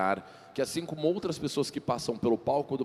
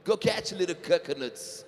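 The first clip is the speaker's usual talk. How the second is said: slow careful English; 5 semitones higher, slower than usual. Shown as a demonstration. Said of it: "o quê?".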